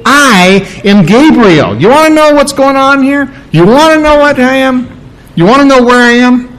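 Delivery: emphatic, high-pitched acted challenge. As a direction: announce yourself grandly, then challenge the doubter. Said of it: "it's very emphatic".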